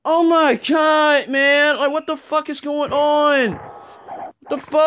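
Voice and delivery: hoarse from yelling; straining voice. Real, not acted. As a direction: voice worn out by shouting. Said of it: "I'm gonna lose my voice".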